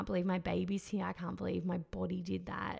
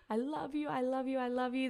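tearful; 4 semitones higher than usual. Retold or imitated. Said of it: "I was crying".

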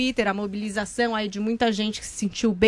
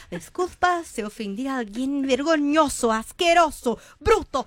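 Paola Carosella voice. Retold or imitated. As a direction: read it as a lightly done Paola. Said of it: "Vem com a voz dela".

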